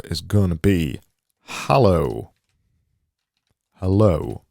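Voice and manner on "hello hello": louder, falling assistant-style hello; Siri-like hello. Real, not acted. Designer reading out his sample text, Siri-like. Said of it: "sounded like a Siri".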